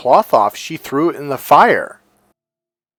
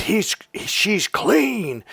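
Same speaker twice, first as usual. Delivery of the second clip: high, drawn-out proclamation; Jesus proclaiming; 8 semitones higher, 5 dB quieter, much slower than usual. Retold or imitated. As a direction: stretch it out in a raised pitch, imitating a public declaration. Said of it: "Jesus said out loud".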